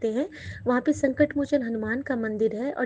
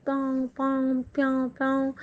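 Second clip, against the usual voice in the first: peacock call imitation. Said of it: "बहुत सारे मोर की आवाज़ आ रही है".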